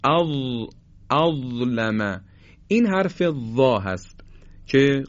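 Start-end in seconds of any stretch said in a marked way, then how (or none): 0.0-2.2 اظلم very slow, ظ with tongue tip; اظلم with a dental ظ; zha demo. Shown as a demonstration. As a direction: draw out اظلم to show ظ.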